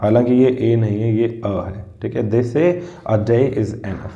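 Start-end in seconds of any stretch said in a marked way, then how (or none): 2.3-4.1 slow, the ay sounds drawn out; slow reading of They say a day is enough; slow demonstration. Shown as a demonstration. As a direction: model the sentence slowly. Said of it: "यहाँ पर भी ए का sound आ गया".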